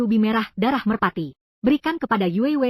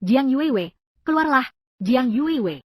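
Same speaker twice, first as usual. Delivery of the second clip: summoning someone from outside the door; calling out loud; slower than usual. Acted. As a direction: call her out, pitch rising on keluarlah. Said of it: "Kenapa kamu berteriak-teriak lagi".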